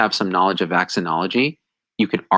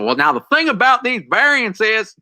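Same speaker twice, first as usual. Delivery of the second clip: put-on higher, louder hick American accent; mock hick American accent; 12 semitones higher, 4 dB louder than usual. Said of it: "like, some hick accent went and said".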